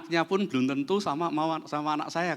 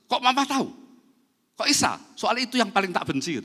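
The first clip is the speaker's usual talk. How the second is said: higher, astonished outburst; shocked son; 8 semitones higher, 4 dB louder than usual. Retold or imitated. Son stunned that mom guessed his girlfriend, astonished. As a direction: blurt it out, caught off guard.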